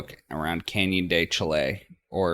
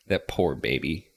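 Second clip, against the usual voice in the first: ordinary talk, nothing marked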